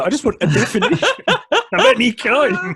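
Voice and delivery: high-pitched plea breaking into laughter; laughing plea. Real, not acted. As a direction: laugh through an exasperated demand, pitched high. Exasperated joking demand, laughing.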